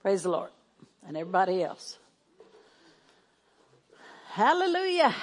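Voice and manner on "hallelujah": high joyful hallelujah; excited hallelujah. Real, not acted. Pastor greeting the Christmas crowd with high joyful praise. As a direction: lift it up in joy.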